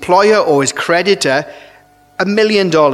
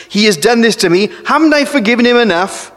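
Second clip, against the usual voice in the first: aggrieved protest; 5 semitones higher than usual. Acted. Resumes the hurt person's complaint.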